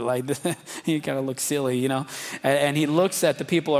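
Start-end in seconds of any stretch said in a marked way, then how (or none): 0.3-0.8 short quiet snicker; soft snicker. Retold or imitated. The preacher imagining Jesus's amused snicker at Lazarus. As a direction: let out a little snicker. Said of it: "Jesus is snickering a little bit".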